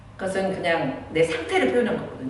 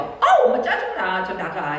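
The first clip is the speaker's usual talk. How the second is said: put-on sulky child; slower than usual. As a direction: whine then storm off muttering. Child complains and leaves. (높고 느리게 투덜대는 아이)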